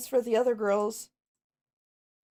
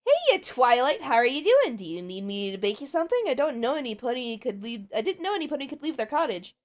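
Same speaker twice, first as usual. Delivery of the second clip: Pinkie Pie voice; 3 dB louder than usual. Acted. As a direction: play the cheerful pink pony greeting her friend. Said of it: "possibly I'll try and do something for Pinkie Pie".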